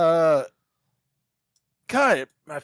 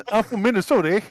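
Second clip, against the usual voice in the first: put-on Minnesota accent; faster than usual. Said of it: "Midwestern accent".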